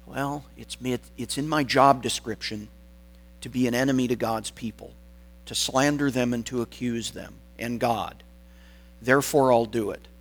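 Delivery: understated, indifferent job-description recital; just going through the motions, no energy behind it; dispassionate, matter-of-fact. Acted. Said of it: "dispassionately or matter-of-factly".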